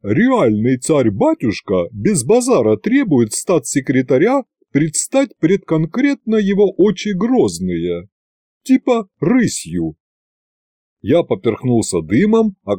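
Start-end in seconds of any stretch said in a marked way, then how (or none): 0.0-10.0 slow, lofty butler announcing to the ceiling; mock-solemn court herald in street slang; pompous proclamation. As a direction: proclaim it grandly, chin up. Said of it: "важный и чопорный Гюнтер провозгласил".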